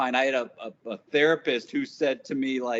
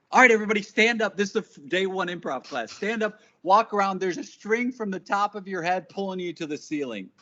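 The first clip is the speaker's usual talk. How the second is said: joyful teacher; 5 semitones higher than usual. Retold or imitated. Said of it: "And he goes".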